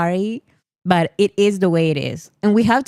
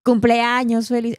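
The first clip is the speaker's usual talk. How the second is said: crazy explosion; 6 semitones higher than usual. Shown as a demonstration. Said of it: "like, crazy".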